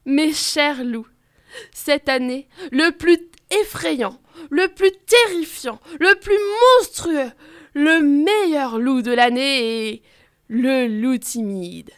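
slow, building solemn proclamation; moved announcement. Acted. President announcing the winner, a touch moved. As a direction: announce the winner with growing emotion. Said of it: "le président est un peu ému".

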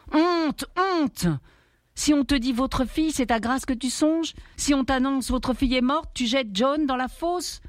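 high, anguished self-scolding; a father yelling shame at himself, pitched high; angry self-reproach. Acted. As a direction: reproche furieux contre soi-même, aigu. Greg berates himself, punching walls.

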